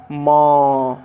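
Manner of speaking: म said alone, loud, ending on a clear short a; sounding the final a. Shown as a demonstration. Teacher loudly sounds out म for students. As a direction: isolate म and voice its closing a. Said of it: "म में अ का उच्चारण हो रहा है".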